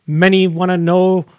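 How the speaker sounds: deadpan spoken rap lyrics, little melody; monotone lyric recital. Pretend. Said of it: "like, monotone voice".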